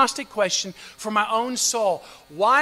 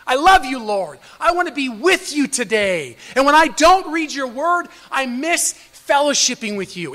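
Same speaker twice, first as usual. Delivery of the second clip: loving prayer; 3 semitones higher, 5 dB louder than usual. Retold or imitated. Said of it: "out of a love, a desire to be close to God".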